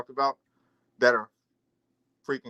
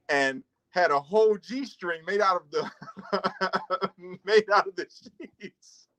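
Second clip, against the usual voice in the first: laughing; slower than usual. Real, not acted. Laughing while telling prison story.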